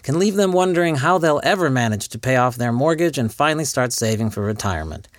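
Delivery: polished, upbeat commercial voice; ad read. Acted. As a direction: sell it like a TV spot. Fake sponsor ad read.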